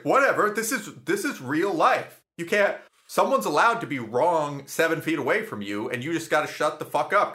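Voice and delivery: high-pitched retold self-justification; defiant dismissal. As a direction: wave off the friend's criticism, indignant. Acted defiant reply to friend.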